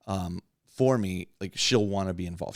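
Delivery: ordinary talk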